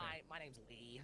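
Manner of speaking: slow, mocking middle American accent. Mocking a bully from school, in a middle American accent. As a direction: imitate an annoying middle American kid introducing himself. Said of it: "very nasally, annoying, like, middle American accent".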